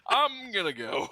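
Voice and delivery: high-pitched, incredulous retold protest; alarmed refusal. Applicant dodging flying knives tells the manager he is leaving, alarmed. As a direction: back out in a high, rattled voice. Acted stunned refusal at job interview.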